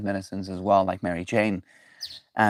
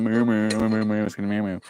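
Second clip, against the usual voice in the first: imitating cow moo; faster than usual. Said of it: "They keep pressing it".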